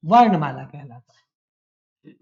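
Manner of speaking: low, slow, drawn-out answer to the class. Shown as a demonstration. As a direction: spell the key word out slowly for students. Teacher answers own question.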